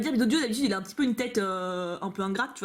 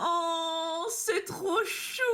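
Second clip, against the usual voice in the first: high, soft and slow, almost tearful: "c'est trop chou"; a breathy little coo over an adorable card; melting with tenderness; 5 semitones higher, 4 dB quieter, much slower than usual. Real, not acted. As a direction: coo it like you're melting inside. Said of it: "ça me fait fondre".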